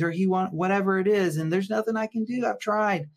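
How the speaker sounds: betrayed wife mimicked, pitched high and exasperated; helpless complaining partner. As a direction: whine it like there's nothing you can do. Voicing a stuck betrayed partner.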